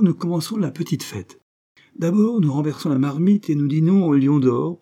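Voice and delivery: a hint of a bubbly friend planning the evening; jovial painter. Painter Villeneuve, jovial host. (peintre jovial, voix un peu plus haute et enjouée)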